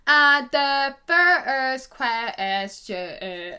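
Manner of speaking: very slow, laughing stumble; stumbling, giggly and slow; stuttering laugh. Real, not acted. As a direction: drag it out through giggles. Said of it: "I'm, like, stuttering".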